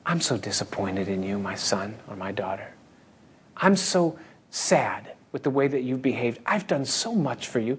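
a hint of a sly devil playing hurt. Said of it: "The devil says".

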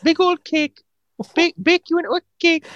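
put-on slurring drunk. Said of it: "You're slurring your words".

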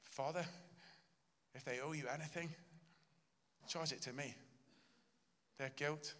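soft, earnest pleading to the Father; tender plea. Acted. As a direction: quietly offer to pay their debt. Jesus voiced pleading to Father.

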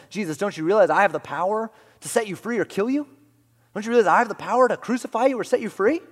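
loud, high, demanding Pilate; Pilate's demand. Retold or imitated. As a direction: boom it out like an arrogant governor. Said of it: "Pilate even says".

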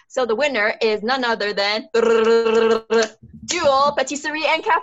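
slow, loud winner announcement; announcer reveal. Pretend. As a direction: build it like a prize reveal.

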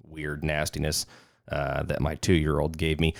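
hoarse, raspy voice from a cold; rough smoker's voice, getting over sickness; smoker's rasp. Real, not acted. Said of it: "I sound like I've been smoking cigarettes for forty years".

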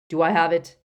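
put-on loud stern old wizard; stern demand. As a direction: demand it firmly. Dumbledore demands promise.

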